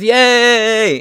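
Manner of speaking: high, bright mocking yay of a gun fan; mock cheer. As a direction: cheer it like the right will when they win. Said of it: "and the right says".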